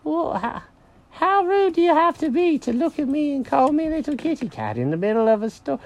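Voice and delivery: high-pitched offended cartoon cat; affronted, high-pitched scolding; indignant cat. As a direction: protest the insult in a high voice. Jenkins offended by Mary.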